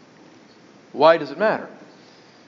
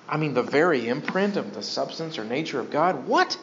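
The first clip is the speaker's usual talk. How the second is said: a mild mock of an indignant first-century critic; outraged objector. First-century critics objecting to the claim, with mild mock outrage. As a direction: protest it, a little scandalised. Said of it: "some people probably said it was blasphemous".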